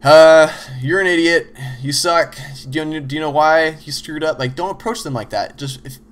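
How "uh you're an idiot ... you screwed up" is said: insulting teammate. Retold or imitated. Walking over to a teammate who made an error, louder mock berating. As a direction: go in guns blazing at him. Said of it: "walk over there and go".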